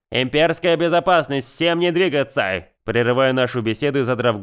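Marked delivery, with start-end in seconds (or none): 0.1-2.6 thunderous voice. Acted. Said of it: "раздался громовой голос". (громовой голос с небес)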